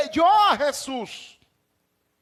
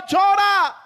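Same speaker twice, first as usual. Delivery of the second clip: a firm raised call to weep, not a full yell; emphatic command; 4 semitones higher, 3 dB louder than usual. Acted. Preacher telling the mourner to cry, raised firm command. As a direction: urge the grieving listener to let it out. Preacher urging grief, calling out.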